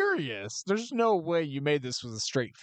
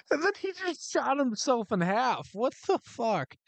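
stunned disbelief; 6 semitones higher than usual. Real, not acted. Reacts to shocking game scene.

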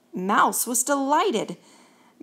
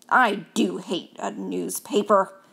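grumpy mouse; 2 semitones lower than usual. Acted.

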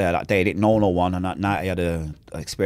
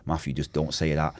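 softer inner voice; God quietly telling him not to curse; subtle voice; 4 semitones lower, 7 dB quieter than usual. Retold or imitated. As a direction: gently warn him off. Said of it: "a subtle voice".

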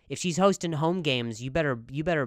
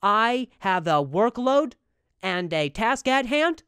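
slow, louder, solemn proud-husband voice; earnest dutiful man; 4 dB louder, slower than usual. Retold or imitated. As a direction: announce your duty like a dependable man. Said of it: "And they, and they talk like that".

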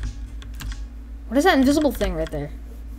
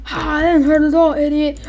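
mock taunting; 6 semitones higher, 4 dB louder than usual. Victim taunts attacker.

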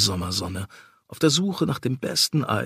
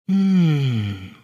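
purred; 2 semitones higher than usual. A narrator's reading. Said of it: "schnurrte sie".

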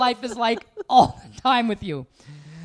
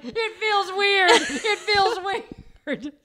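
put-on slow, higher little-kid whimper; son's whine; 5 semitones higher, much slower than usual. Mimicking son complaining nails feel weird, slow and whiny. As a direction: whine like a small upset child. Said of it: "And he was like".

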